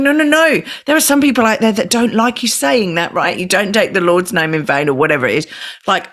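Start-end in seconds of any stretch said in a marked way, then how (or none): 0.0-4.9 higher, firmer no no no; correcting parent. Retold or imitated. Parent telling son off in public, mild scolding. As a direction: gently scold the child. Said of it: "And I'm going".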